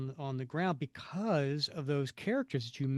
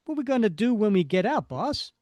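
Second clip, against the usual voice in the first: henchman voice; 6 semitones higher, 7 dB louder than usual. Acted. Henchman asks villain.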